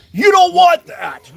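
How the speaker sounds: furious, high, slow bellowed yell. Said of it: "yells across, across the yard. He goes".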